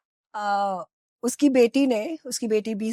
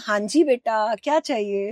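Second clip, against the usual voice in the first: lightly voiced sweet, obliging mom; a touch of doting mother answering her son; 2 semitones lower than usual. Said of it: "तो आप बोलते हो".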